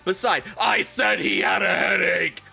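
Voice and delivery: high-pitched indignant protest; defensive rant. Acted. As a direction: whine back at the critics, building to a shout. Voices the author's defensive note.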